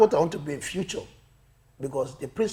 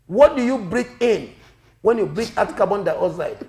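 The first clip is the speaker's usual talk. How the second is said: loud, higher principal's question; stern principal quizzing; 4 semitones higher, 8 dB louder than usual. Acted. Principal quizzes the pupil on science, loud and deliberate.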